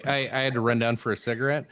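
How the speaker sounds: winded after running stairs; out of breath, talking between breaths. Real, not acted. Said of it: "I'm a little out of breath".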